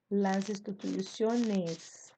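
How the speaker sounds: "instituciones" slow, stressed on CIO; stress on penultimate syllable. Shown as a demonstration. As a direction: slowly lean on CIO in "instituciones". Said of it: "ela vira grave olhana". ("instituciones" devagar, com a penúltima sílaba tônica)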